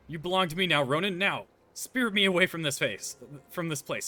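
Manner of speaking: sneering panto villain. Acted. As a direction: ham it up like a stage villain.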